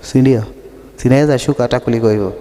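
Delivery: dropping the voice low to show its depth; deep voice demo. Shown as a demonstration. Preacher showing off how low her voice goes. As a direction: go down as low as the voice will go. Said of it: "I have a deeper voice than most men".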